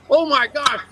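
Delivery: high-pitched, excited fan impression; imitated starstruck greeting. Radio man mistakes him for the drummer, mock starstruck. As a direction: gush as if meeting a star.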